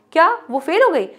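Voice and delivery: disbelieving question with a lift; surprised. Shown as a demonstration. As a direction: sound stunned by the news. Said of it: "आश्चर्य दिखा रहे हो".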